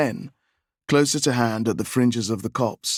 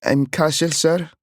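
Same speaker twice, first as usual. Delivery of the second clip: put-on higher, timid child voice; a small boy answering politely; little boy voice; 6 semitones higher than usual. A narrator's reading.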